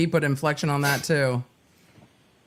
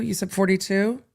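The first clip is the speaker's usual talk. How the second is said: incredulous; 2 semitones higher than usual. Retold or imitated. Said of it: "the jury just went".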